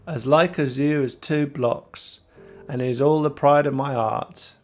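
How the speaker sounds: sailor's dialect, "heart" without its H; stranger's dialect. Acted. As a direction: put on a lightly voiced sailor's accent. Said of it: "It's just expressing the accent".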